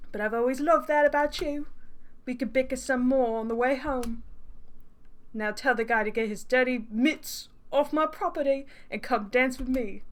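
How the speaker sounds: smug suitor in a fake British accent; badly faked British accent, teasing. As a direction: coax in a dodgy British accent. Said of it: "not even a good accent".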